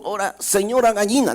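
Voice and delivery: quick, high little mouse voice; a frightened mouse rushing his plea; nervous little mouse. Acted. Mouse begging the hen, high and hurried.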